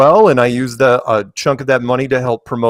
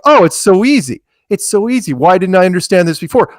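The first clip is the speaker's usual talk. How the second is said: higher, lightly hammed-up revelation; imitated eager convert, pitched up; mock new-convert enthusiasm; 4 semitones higher, 4 dB louder than usual. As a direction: play someone who has just seen the light. Acting a newly convinced believer.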